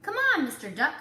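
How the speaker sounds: high, loud playful urging; eager coaxing. Acted. Cow urges the duck to join, high and loud. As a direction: pull him into the game.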